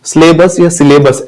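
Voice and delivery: "सिलेबस" as SLAY-bus, then si-LAY-bus; common mispronunciations. Retold or imitated. Teacher mimicking how we say it, "सिलेबस" with "lay". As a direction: give "सिलेबस" a long "lay", two wrong ways. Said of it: "ऐसे बोलते हैं हम".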